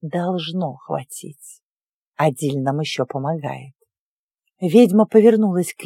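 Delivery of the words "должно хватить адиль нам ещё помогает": low, slow, quiet uneasy witch; nervous witch. Acted. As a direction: reassure yourself, uncertain. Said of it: "нервно кусая губу".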